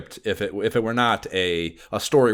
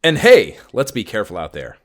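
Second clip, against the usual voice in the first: lightly voiced jokey healer; 2 semitones lower, 4 dB louder than usual. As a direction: toss it off like a healer doing a bit. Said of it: "medical professional moonlighting as a comedian".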